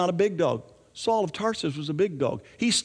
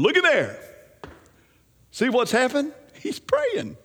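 excited pointing; 7 semitones higher than usual. Retold or imitated. Jesus showing Ananias the praying Saul, excited. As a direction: point it out with wonder.

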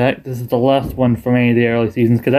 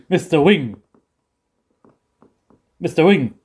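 cocky Bill; 2 semitones higher than usual. Retold or imitated. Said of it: "he's always all cocky".

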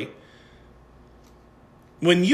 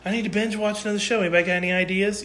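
mocking lazy binge-watcher; 4 semitones higher, 5 dB quieter, faster than usual. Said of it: "People get on, like".

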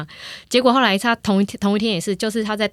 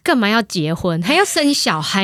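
put-on slow, louder scolding kid; child lecturing parents; 5 dB louder than usual. Son scolds his arguing parents, slow and loud. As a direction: lecture the parents like a stern little judge. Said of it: "他就说".

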